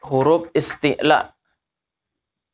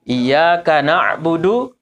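drawn-out demonstration; slower than usual. Shown as a demonstration. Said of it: "ini jangan kepanjangan".

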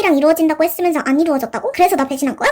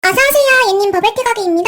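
high, louder singsong welcome; loud cheery greeting; 5 semitones higher, 4 dB louder than usual. Acted. Bubble tea shop owner welcoming a customer, loud high singsong. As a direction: belt the shop welcome out brightly.

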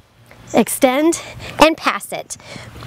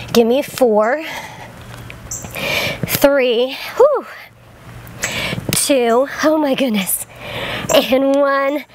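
counting while holding a plank; strained counting mid plank; much slower than usual. Real, not acted. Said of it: "you're just holding the plank there".

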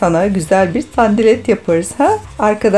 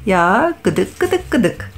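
playful tickling; 2 semitones higher, slower than usual. Real, not acted. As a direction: chant it while tickling. Mother tickling, sing-song.

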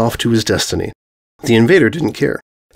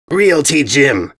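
screamed; 3 semitones higher, much slower than usual. Acted. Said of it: "he screamed".

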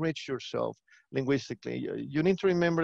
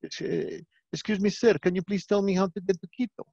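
put-on higher-pitched, polite Ecuadorian accent; 5 semitones higher than usual. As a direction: imitate an Ecuadorian politely asking directions. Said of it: "Ecuadorian people would be like".

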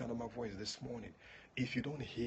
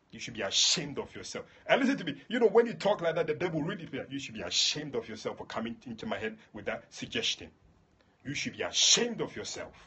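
loud scolding rebuke; 5 dB louder than usual. Pretend. Preacher shaming the devil for bad suggestions, loud. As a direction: shame the devil, louder and louder.

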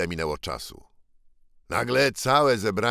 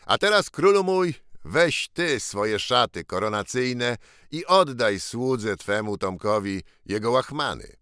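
calling out; 3 semitones higher than usual. Acted. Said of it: "Tomek Kęty zawołał".

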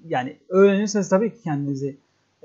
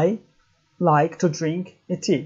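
whole sentence, unhurried. Shown as a demonstration. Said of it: "Mesela diyelim ki".

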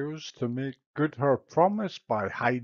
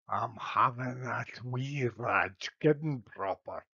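put-on Glasgow street accent. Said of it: "utters a terrifying oath".

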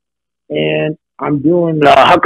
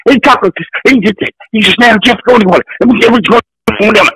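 high, mumbled Creole-Southern accent imitation; strange Southern accent; 8 semitones higher, faster than usual. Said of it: "this guy had the strangest accent".

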